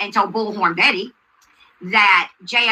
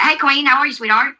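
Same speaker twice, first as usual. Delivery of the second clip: sweet friendly greeting; 5 semitones higher than usual. Retold or imitated. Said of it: "What they said".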